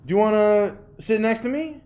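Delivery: retold challenge. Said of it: "And I go".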